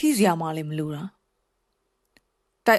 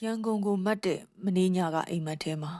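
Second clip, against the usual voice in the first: whisper; 7 dB quieter than usual. Acted. Poem opening line in a whisper.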